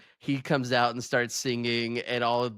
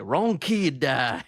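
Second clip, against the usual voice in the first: deadpan movie quote; 3 semitones higher, 3 dB louder, much slower than usual. Retold or imitated. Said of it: "and I was like".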